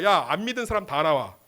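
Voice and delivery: acted rebuke with a loud burst; mock-stern telling-off; scolding. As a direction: call them out like a stern reprimand. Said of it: "예수님 책망합니다".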